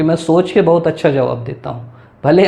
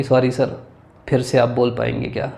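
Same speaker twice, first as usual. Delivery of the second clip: polite request; 3 semitones lower, 5 dB quieter than usual. Shown as a demonstration. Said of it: "विनम्रता से पूछना है".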